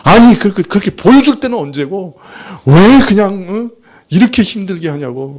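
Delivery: mock-angry grumbling at being let down; retold angry complaint. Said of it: "나한테 막 화를 내는 거예요".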